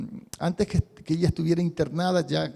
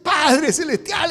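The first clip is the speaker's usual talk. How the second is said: higher, slow, moved cry of Father; emotional prayer; 9 semitones higher, 6 dB louder, much slower than usual. Shown as a demonstration. Preacher showing a moved believer, voice breaking with emotion. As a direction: say it close to tears. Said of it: "si yo estoy emocionado".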